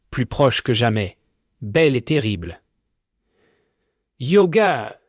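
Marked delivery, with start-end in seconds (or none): 4.2-5.0 high eerie voice of the sea spirit; sea spirit speaking. Acted. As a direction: pitch it high and otherworldly. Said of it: "dit-elle". (voix aiguë et surnaturelle de l'esprit de la mer)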